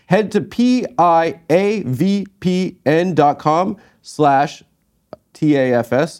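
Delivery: slow, spelled out promo voice; ad read. Acted. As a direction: read the URL like an ad.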